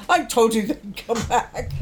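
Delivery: a light laughing gloat; laughing I told you. Retold or imitated. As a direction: needle mom through a laugh.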